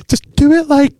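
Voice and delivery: high American accent impression; Taylor Tomlinson. Showing co-host how the comedian says it, mock American accent. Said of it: "it's just the way she says it in a".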